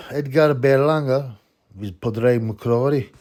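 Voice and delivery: put-on slow, drawn-out Northern Irish accent; lightly put-on Northern Irish accent, dragged slowly. Vlogger jokingly announces a fighter in a slow Northern Irish accent. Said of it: "I did that in a, n-, in a Kent, Northern Ireland accent".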